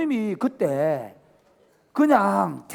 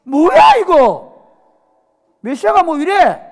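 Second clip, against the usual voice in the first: 높고 크게 놀라 따지는 말; 어이없다는 듯 크게 외쳐; shocked disbelief; 10 semitones higher, 14 dB louder, slower than usual. Retold or imitated. 실망한 제자들 흉내. (높고 큰 소리로 어이없어하는 제자)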